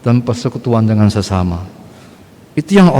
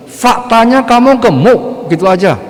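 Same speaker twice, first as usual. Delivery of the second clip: much higher and slow, drawing out "kamu"; blunt emphasis; 9 semitones higher than usual. Real, not acted. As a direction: rise high and slow on "gemuk" as if stating the obvious. Preacher pressing a blunt point.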